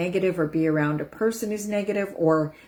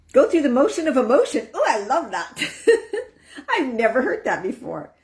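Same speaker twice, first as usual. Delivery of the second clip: high, loud, laughing read of a comment; delighted laughing; 7 semitones higher, 4 dB louder than usual. Real, not acted. Reading Pamela's comment aloud, delighted laugh. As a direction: savour the phrase and laugh.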